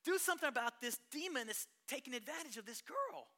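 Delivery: high loud pleading call to "Dad, Dad"; desperate plea for help; urgent cry to Dad. Retold or imitated. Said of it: "And I was like".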